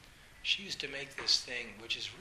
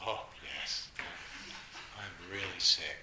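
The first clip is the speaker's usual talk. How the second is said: low, dry mock agreement with a roll of the eyes; a kid's low, droll put-on suffering; sarcastic eye-roll; 4 semitones lower, slower than usual. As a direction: play up the sick act with sarcasm. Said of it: "And I'd roll my eyes".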